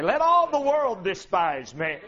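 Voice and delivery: low resolved repeat; dropped echo. Real, not acted. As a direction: bring it down and inward. Echoing previous line.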